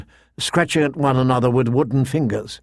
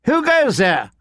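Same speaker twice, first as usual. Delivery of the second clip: higher, uncertain challenge; calling out; 10 semitones higher than usual. A narrator's reading. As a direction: call into the dark woods. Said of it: "the lordling called out suddenly".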